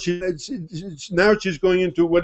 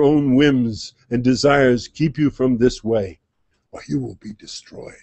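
solemn divine voice. Acted. Divine voice warns.

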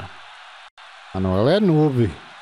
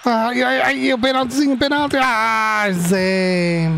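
anguished cry; 11 semitones higher, slower than usual. Real, not acted. Penalty tension in game.

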